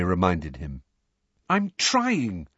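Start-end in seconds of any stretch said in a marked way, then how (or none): 1.5-2.5 miserably. A narrator's reading. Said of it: "said Neville miserably".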